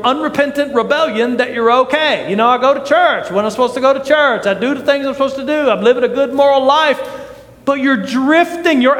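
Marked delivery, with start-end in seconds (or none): 2.3-7.0 quick, offhand recital of excuses; complacent self-justifying. Acted. Preacher voices a drifting churchgoer excusing himself, fast and complacent. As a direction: rattle it off as a self-satisfied churchgoer.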